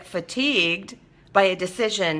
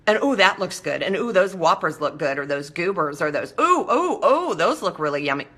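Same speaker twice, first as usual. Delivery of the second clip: tempted oohing. Acted. Tempted at snack counter.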